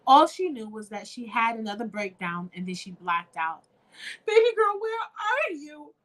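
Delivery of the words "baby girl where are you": worried calling. Acted. Mother searching for child.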